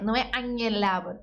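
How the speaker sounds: anhelaban with the H silent, like anelaban. Shown as a demonstration. Teacher showing students the silent H in anhelaban. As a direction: say anhelaban as a-ne-la-ban, no H sound. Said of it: "é som de N".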